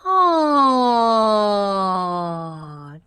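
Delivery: open-throated yawn sigh falling. Shown as a demonstration. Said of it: "Make sure your chin stays up".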